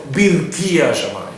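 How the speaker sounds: "birkia" picked out as the key word; stress on BIRKIA. Shown as a demonstration. Teacher choosing a different word to emphasize, stress on "birkia". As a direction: put the weight on "birkia". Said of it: "I want to emphasize the word".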